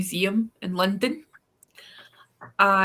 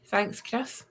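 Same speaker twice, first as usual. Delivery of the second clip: 1 whispered thanks; 6 dB quieter than usual. Real, not acted. Sarcastic aside to co-host.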